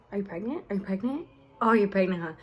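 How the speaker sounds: mock-questioning tease with rising ends; kidding around. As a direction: imitate a brother's joking prodding. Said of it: "kidding around".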